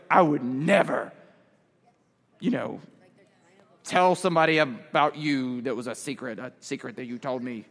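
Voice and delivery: low, hushed put-on voice; deep, soft mock-solemn vow; earnest promiser. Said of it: "somebody promise you something real emphatically".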